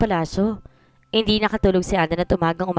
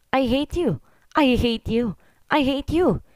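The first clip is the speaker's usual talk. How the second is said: crying shout; 5 semitones higher, much slower than usual. A narrator's reading. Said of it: "Sigaw naman ni Heaven na umiiyak".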